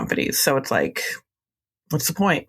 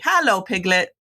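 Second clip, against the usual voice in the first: Winnie the Pooh; 3 semitones higher than usual. Retold or imitated. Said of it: "what Winnie the Pooh used to always say".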